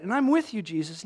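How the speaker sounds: high, loud mock-eager pledge; super excited. Imagined disciple commits to Jesus, super excited. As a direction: pledge it like an over-keen follower. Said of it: "Peter doesn't even sound super excited".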